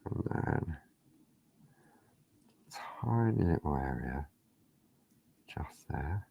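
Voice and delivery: breath held, barely voiced; tense, holding your breath while working. Real, not acted. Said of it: "I'm holding my breath".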